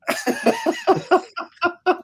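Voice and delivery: high-pitched burst of laughter; real laugh. Real, not acted. Artist joking about his best cover, laughing. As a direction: laugh at your own joke.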